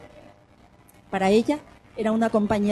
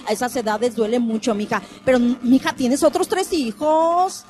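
comforting platitudes. Pretend. Acted platitudes to grieving mother.

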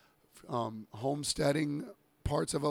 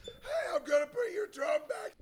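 calling out. Real, not acted. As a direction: shout it to a neighbour. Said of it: "I can just do it for real".

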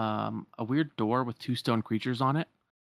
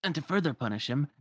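lightly voiced, higher storyteller; storytelling servant; 4 semitones higher than usual. Enchanted servant telling the rescuers of the curse, lightly theatrical. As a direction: lilt through it like a fairy tale.

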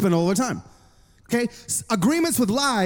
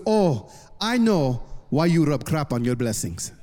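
low, slow voice of a wise dad; knowing father; 8 semitones lower, slower than usual. Retold or imitated. Dad answers his troubled son on the phone, knowingly. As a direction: answer slowly and deep, imitating a knowing father.

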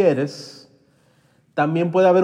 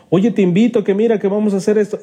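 pushy invite; 4 semitones higher, 5 dB louder, much faster than usual. Acted. Friend pushing an invitation.

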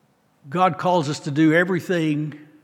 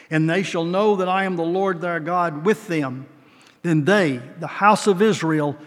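scripture reading; 2 semitones higher than usual. Acted. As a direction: build to the declaration. Reads scripture, rising end.

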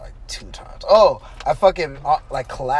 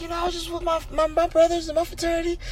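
high-pitched retold explanation; pitched-up imitation of making excuses; mock excuse; 11 semitones higher, 5 dB quieter than usual. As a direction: talk your way out in a higher, softer voice. Retelling excuse to medics.

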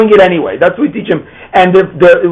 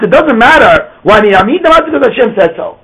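put-on child asking properly; 5 semitones higher than usual. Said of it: "Instead, we say".

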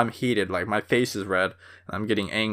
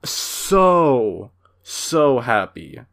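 gushing happy; much slower than usual. Real, not acted. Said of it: "I was".

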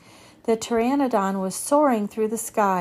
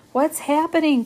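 higher, louder frightened cry; alarmed cry; 6 semitones higher, 4 dB louder than usual. A narrator's reading. Boy in spinning treehouse, alarmed cry. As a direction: cry out as the house spins. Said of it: "cried Jack".

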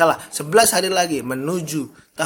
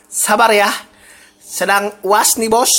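playful apology; 7 semitones higher, 8 dB louder, slower than usual. Real, not acted. Teasing apology to listeners.

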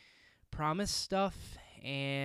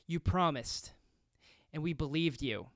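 mildly raised, accusing; a touch louder, pressing the betrayal; understated raised reproach. Retold or imitated. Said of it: "Then in a louder voice".

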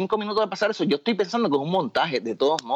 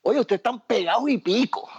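chamaco al teléfono; 7 semitones higher than usual. Retold or imitated. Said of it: "una llamada telefónica de un chamaco que dijo".

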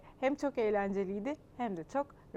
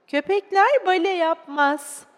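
louder, higher, slow pronouncement; stern teacher; 6 semitones higher, 12 dB louder, slower than usual. Acted. Teacher telling a child that dogs don't do ballet, stern. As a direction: lay down the rule emphatically.

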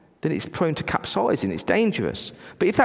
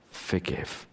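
whispered command; 10 semitones lower, 10 dB quieter than usual. Acted.

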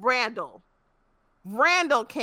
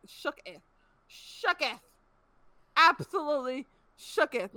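playful shook; 3 semitones higher, 5 dB quieter than usual. Real, not acted. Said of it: "I was shook".

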